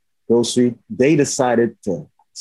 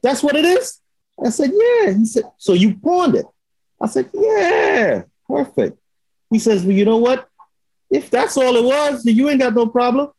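retold relief; 11 semitones higher than usual. Retold exchange with relieved cop.

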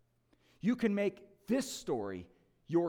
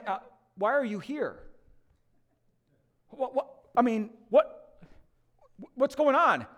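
puzzled angel; 5 semitones higher than usual. Retold or imitated. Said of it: "the angel's sitting there going".

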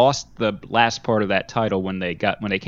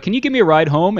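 pleading gamer; 8 semitones higher, 5 dB louder, faster than usual. Retold or imitated. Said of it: "they're like".

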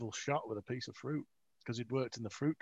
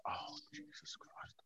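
slow, whispery exasperated groan; exasperated undertone; 13 dB quieter, slower than usual. Retold or imitated. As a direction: sigh the words out under the breath. Boss reacts with exasperation.

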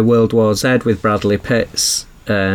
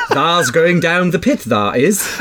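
laughing mock Yorkshire dialect; broad Yorkshire, slow and giggling; Yorkshire accent; 5 semitones higher, slower than usual. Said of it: "Imagine someone doing an Audible".

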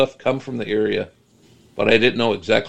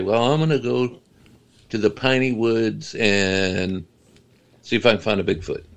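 mocking voice. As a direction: put on a mild mock voice for a would-be Bigfoot hunter. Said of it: "it kinda like mocking".

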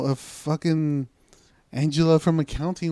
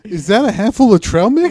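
laughing; 6 semitones higher, 8 dB louder than usual. Pretend. Laughing mock tasting game.

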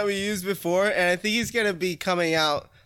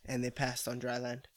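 unvoiced hushed whisper; 10 semitones lower, 13 dB quieter than usual. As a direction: whisper it reverently. Whispered scripture line.

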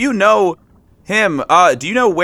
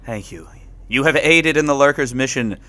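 low, grave blessing; solemn knightly voice; 5 semitones lower, 3 dB quieter than usual. Acted. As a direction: bestow thanks like a knight. Finn solemnly thanks fish.

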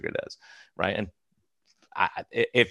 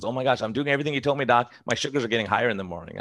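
freaking out; 3 semitones higher, faster than usual. Retold or imitated. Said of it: "She was freaking out".

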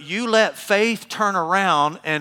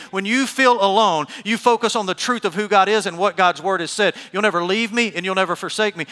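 full-force preaching; 3 semitones higher, 4 dB louder than usual. Acted. Preacher driving scripture home to a congregation, full-force preaching. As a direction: preach it loud and urgently.

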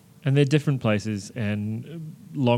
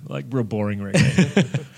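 laughing; slower than usual. Real, not acted. Joking about barbecue reggae.

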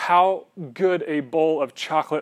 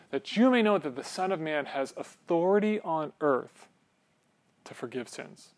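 quiet Jesus; 5 dB quieter than usual. Acted. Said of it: "he says this".

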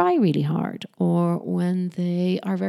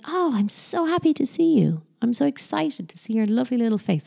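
high, gushing happy welcome; delighted greeting; 5 semitones higher than usual. Acted. Parent greeting little ones each morning, delighted.

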